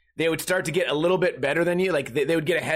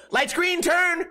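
high, urgent barked order, much higher; mock nagging yell; 11 semitones higher, slower than usual. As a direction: nag the driver to go now. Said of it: "they'd be go".

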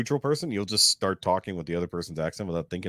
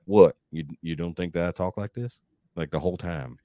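fake Texas accent. Telling how he'd fool weekend company, fake Texas accent. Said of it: "put on my fake Texas accent".

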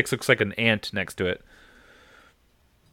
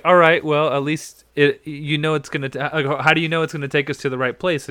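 mock worried Hu Yang; 6 semitones higher, 5 dB louder than usual. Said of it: "Hu Yang's like".

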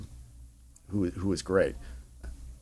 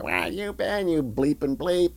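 retold screaming; 6 semitones higher, slower than usual. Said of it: "start screaming at each other".

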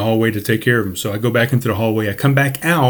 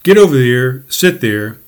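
raised, higher voice ordering him away; telling him off; 3 semitones higher, 4 dB louder than usual. Retold or imitated. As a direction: snap him back to his seat, loud. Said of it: "And I said".

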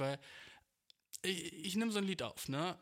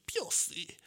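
slow, warped robotic Pussy; mock autotuned word; 4 semitones higher, 3 dB louder than usual. Shown as a demonstration. Showing the producer the autotuned Pussy he wants, slowed and warped. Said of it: "so ein bisschen so autotune".

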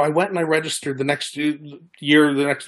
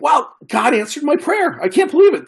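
a much higher, excited burst of wonder; amazed joy; 12 semitones higher, 3 dB louder than usual. Retold or imitated. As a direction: relive the thrill of a prayer answered. Retold joy at answered prayer.

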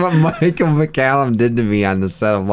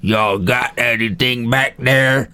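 Sling Blade impression; slower than usual. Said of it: "done for Sling Blade".

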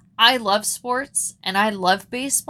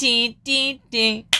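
organ tune; 3 semitones higher than usual. Retold or imitated. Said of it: "playing the organ".

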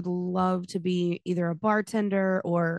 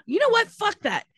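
excited outburst; 13 semitones higher, 5 dB louder than usual. Real, not acted. Sudden outburst.

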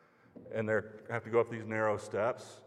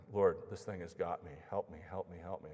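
desperate prayer; 5 semitones lower, 7 dB quieter than usual. Retold or imitated. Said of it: "I'm, like, praying".

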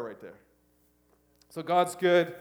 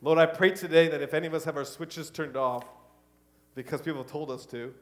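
pastoral prayer; 2 semitones lower than usual. Acted. Pastor praying over the congregation, earnest. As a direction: pray it steadily over the room.

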